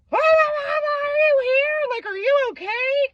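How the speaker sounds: frantic tearful cry, voice strained high; panicked calling out. Retold or imitated. Woman climbing in his window, fearing he's dead, panicked cry.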